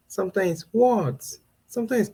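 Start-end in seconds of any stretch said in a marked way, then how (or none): 0.7-1.3 "What" pitched up, then falling; raised "What". Shown as a demonstration. Mom answering when her child calls, raised "What". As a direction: answer a call with a higher, more impatient "What". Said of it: "It comes with different tones".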